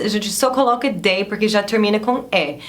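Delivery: normal talking voice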